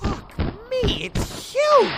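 startled, high-pitched disbelief; shocked exclamation. Acted. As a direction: yell in shock at something huge. Sees huge monster.

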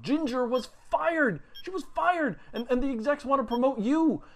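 excited news. Acted. Telling his comatose partner the news, excitedly. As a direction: burst out the good news, pitched high.

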